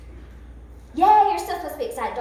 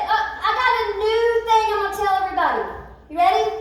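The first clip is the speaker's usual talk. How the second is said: fast, loud, half sung announcement; excited proclamation; 5 semitones higher, 4 dB louder than usual. Acted. King announcing the new decree to everyone, excited. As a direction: proclaim the new rule with glee.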